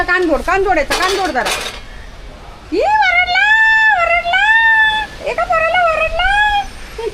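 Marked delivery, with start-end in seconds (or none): 2.7-7.0 very high drawn-out squeal; playful squealed mock cry; mock wailing. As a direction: tease with long, held high wails. Teasing the dog for being scolded.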